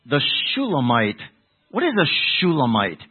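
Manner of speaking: leading false suggestion. Shown as a demonstration. Preacher baiting the congregation with a wrong answer, leading tone. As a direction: float a wrong answer as if obvious. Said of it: "if I'm talking like this".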